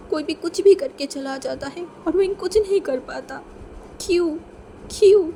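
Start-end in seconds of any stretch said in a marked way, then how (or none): 4.0-4.4 crying question. A narrator's reading. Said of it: "विंग अब फूट फूट के रोने लगा था". 4.9-5.3 crying out much louder and higher; anguished cry. A narrator's reading. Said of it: "विंग अब फूट फूट के रोने लगा था".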